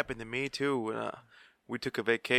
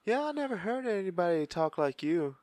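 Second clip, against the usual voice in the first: higher-pitched quote of a woman; mildly put-on higher voice for her; imitating her; 6 semitones higher than usual. Woman telling him she never heard such talk, higher imitation. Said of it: "She's all".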